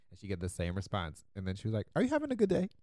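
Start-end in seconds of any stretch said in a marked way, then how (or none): 1.9-2.7 high-pitched imitation of the friend; mock-sweet question. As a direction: ask pointedly, pitched way up. Retold friend needling the worker.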